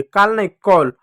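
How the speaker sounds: काल with a long open aa, then कॉल with a rounded aw sound; pronunciation contrast. Shown as a demonstration. Teacher correcting students on how to say call. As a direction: set काल against कॉल, rounding the vowel in कॉल. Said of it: "औ की मात्रा पढ़ दिया".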